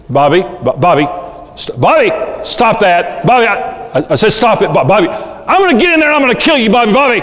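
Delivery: exasperated parent escalating, pitch climbing sharply; parent losing control. Acted. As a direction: build from stammered warnings to high, frantic threats. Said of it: "parents lose control".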